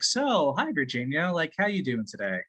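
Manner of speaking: relaxed, friendly greeting with a lifted "So"; warm sales voice. Shown as a demonstration. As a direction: ease in, warm and non-threatening. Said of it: "that's more like this".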